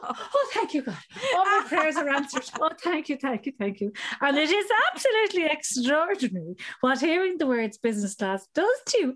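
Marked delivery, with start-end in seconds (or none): 0.0-3.9 high, breathless gushing thank-yous; overjoyed mock gratitude, pitched way up. Wife overjoyed at business class upgrade, gushing high thanks.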